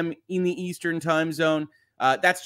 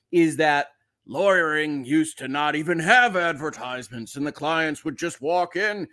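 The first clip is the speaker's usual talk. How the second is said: lightly put-on senior partner, a bit too serious; a touch of stuffy law-firm gravitas; old partner voice. Host imitating a self-serious senior law partner, mild gravitas. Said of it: "That's my old partner, uh, voice".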